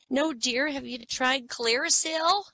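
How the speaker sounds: put-on high, slow sweet old lady. Old shop lady to flat-chested customer, high and slow. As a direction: peer at her and croon it like a kindly old shopkeeper.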